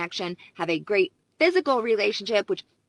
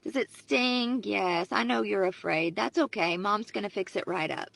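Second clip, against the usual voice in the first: lightly voiced caring mother easing a scraped knee; attuned mother; 3 semitones higher than usual. Caring mother comforting her hurt little girl, lightly soothing. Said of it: "An emotionally attuned mother would act like this".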